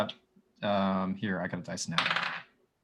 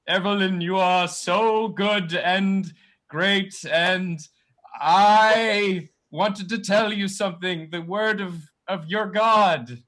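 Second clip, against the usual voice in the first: slow, hammed-up booming deity; much slower than usual. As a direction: fake a grand booming god. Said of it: "this booming voice".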